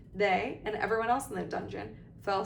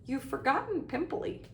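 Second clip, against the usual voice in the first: high, teasing jab; hissed taunt; 6 semitones higher than usual. A narrator's reading. Poltergeist in the crying ghost's ear, taunting. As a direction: needle her with one more insult. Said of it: "Peeves hissed in her ear".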